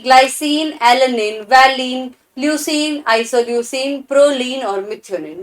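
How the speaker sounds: slow, deliberate list of amino acid names; slow recital. Shown as a demonstration. Teacher slowly reciting amino acids to students, drawn out. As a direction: spell each name out slowly for the class. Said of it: "जल्दी बोलिए, इसी तरीके से बोलिए".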